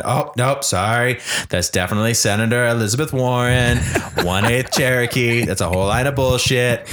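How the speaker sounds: lightly voiced Trump rant; a hint of Trump, blustering along; Trump impression. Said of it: "practice that Trump voice".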